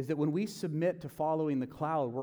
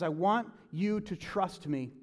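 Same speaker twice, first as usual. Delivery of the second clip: slow, gentle instruction; calm, patient divine voice; God's calm voice. Acted. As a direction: speak slowly and reassuringly as God. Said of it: "he says".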